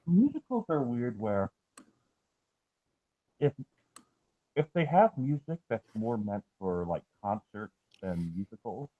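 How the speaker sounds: muffled, talking through a sandwich; words round a bite of food, muffled; mouth full. Real, not acted. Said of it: "you sound like you're talking underwater".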